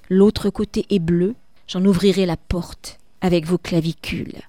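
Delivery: solemn reading of a poem. Acted. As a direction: read it like death itself addressing you. Teacher reads death's lines.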